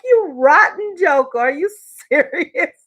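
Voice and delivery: wife telling off husband in disbelief; indignant retort. Retold or imitated. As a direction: spit the insult at him. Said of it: "was like".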